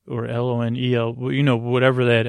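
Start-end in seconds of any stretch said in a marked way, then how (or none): 0.1-1.1 spelled out letter by letter. Shown as a demonstration. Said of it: "however you spell that word".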